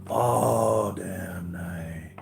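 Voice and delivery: words stretched out through a real yawn. Real, not acted. Tired streamer yawning to chat after a sleepless night. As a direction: yawn your way slowly through it. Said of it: "So forgive me for yawning".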